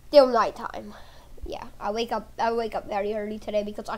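hushed whisper. Pretend. Kid waking in the night, whispering. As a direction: whisper so no one hears.

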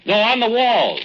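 high loud call; loud call into the cave. Acted. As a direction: shout it so she hears. Calling back into cave.

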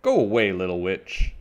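loud, grouchy dismissal easing off; shrieking. A narrator's reading. Aunt Grouchy sends Little Witch away, shrieking. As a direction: shoo the child off, loud at first. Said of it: "shrieked Aunt Grouchy".

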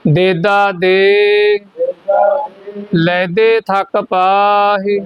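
ਦੇਦਾ and ਲੈਦੇ said without nasal n; ਬਿਨਾਂ ਬਿੰਦੀ ਦੇ ਪੜ੍ਹੋ; no nasal sound. Shown as a demonstration. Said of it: "ਦੇਂਦਾ ਤੇ ਲੈਂਦੇ ਨਹੀਂ ਪੜ੍ਹਨਾ".

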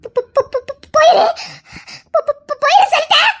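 high, stuttering, near tears; panicked stammer. Acted. Terrified girl stammering at the man to go away. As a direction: stammer the command through fear.

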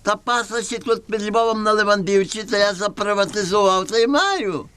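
high, sing-song peddler voice; comic Gypsy trader. Acted. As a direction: hawk the goat like a trickster. Gypsy seller pitching goat.

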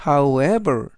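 "however" with the weight on the e after the w; stress on e. Shown as a demonstration. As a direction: lean on the e of "however". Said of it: "E의 강세가 있습니다".

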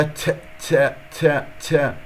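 ت repeated with an added puff of breath; faulty, over-whispered t release; wrong breathy ta. Shown as a demonstration. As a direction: aspirate each ت. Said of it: "هكذا تجعل فيها همس".

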